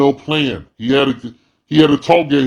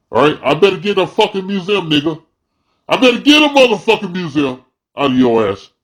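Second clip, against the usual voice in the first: mildly heated, higher-pitched demand; indignant demand; 5 semitones higher than usual. Acted. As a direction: build the insistence on the repeat. Acted demand aimed at the fundraisers.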